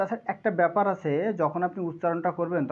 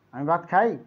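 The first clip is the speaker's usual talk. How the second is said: a touch of annoyance on আমি ভাত খাই, খাই pushed a little louder; irritated; 3 dB louder than usual. Shown as a demonstration. Teacher shows students a mildly irritated আমি ভাত খাই. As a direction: say it mildly fed up. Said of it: "কিছুটা বিরক্তি বা রাগের সঙ্গে বলা হচ্ছে".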